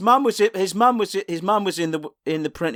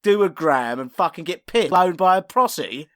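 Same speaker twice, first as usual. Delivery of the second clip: sarcastic, higher-pitched woe-is-me; mock complaint; 3 semitones higher, 3 dB louder than usual. Co-host mimics club owner moaning about hard work, mock complaint. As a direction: whinge as if hard done by.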